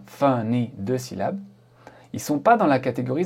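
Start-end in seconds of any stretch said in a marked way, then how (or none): 0.0-0.7 "funny" split into two separate syllables; counted syllables. Shown as a demonstration. Teacher counting the syllables for learners, "funny" split in two. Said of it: "si on compte bien".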